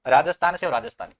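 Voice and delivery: "राजस्थान से" launched loud, then "राजस्थानी"; loud, insistent stress on "राजस्थान से"; emphatic contrast. Shown as a demonstration. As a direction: punch "राजस्थान से" hard against "राजस्थानी". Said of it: "समझ रहे हो ना?".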